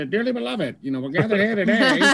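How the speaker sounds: squeaky puppet voice, high; ventriloquist dummy. Pretend. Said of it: "and you'll be like".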